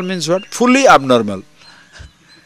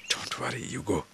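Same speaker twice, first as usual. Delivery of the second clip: offhand soft; 5 semitones lower, 16 dB quieter than usual. Acted. Offhand reassurance.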